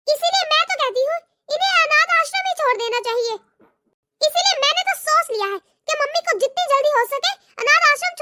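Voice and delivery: a lightly voiced, scornful young daughter-in-law. Daughter-in-law mocking her mother-in-law to her sister-in-law, scornful. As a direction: sneer at the old woman.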